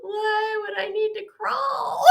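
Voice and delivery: high, slow question breaking into laughter; incredulous, laughing. Retold or imitated. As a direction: stretch it out in amused disbelief. Incredulous reaction, retold through laughter.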